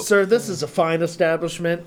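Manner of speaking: slow, haughty stuck-up server; snooty waiter. Pretend. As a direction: look down your nose, slowly. Mock posh reply to story.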